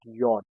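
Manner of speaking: Yacht said "yot", with a y sound; name the German J as "yot"; German letter name. Shown as a demonstration. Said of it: "We call it".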